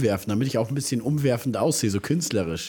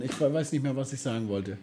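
trailing off; 6 dB quieter than usual. Real, not acted. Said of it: "ich hab den Faden verloren".

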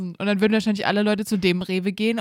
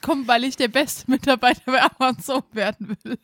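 stifled giggles; 5 semitones higher, 4 dB louder than usual. Real, not acted. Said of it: "Ich lache".

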